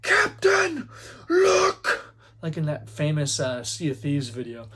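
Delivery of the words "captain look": high, loud lookout's cry; acted lookout shout. Lookout calling to his captain, urgent acted shout. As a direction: holler down from the masthead in alarm. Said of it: "dude that's at the top of the mast".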